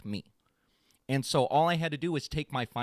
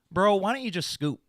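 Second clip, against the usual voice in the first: taunting opponent; 6 semitones higher, 6 dB louder than usual. Retold or imitated. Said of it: "And he goes".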